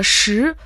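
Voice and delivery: "ши" in the Mandarin second tone, rising. Shown as a demonstration. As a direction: let "ши" climb as in Chinese second tone. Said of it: "произносится во втором тоне".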